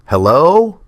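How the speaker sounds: groggy, just woken up; sleepy rough voice. A narrator's reading. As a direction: answer the phone half asleep. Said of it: "voice rough with sleep".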